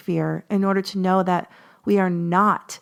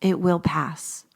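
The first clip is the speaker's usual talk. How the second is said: calm slow reassurance; 2 semitones lower, slower than usual. Real, not acted. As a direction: say "it will pass" slowly like a promise. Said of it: "because when you are not fighting against it".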